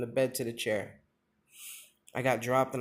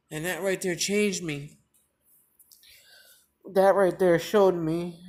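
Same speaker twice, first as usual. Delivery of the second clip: emotional emphasis; 4 semitones higher, 6 dB louder than usual. Real, not acted. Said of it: "I get real emotional".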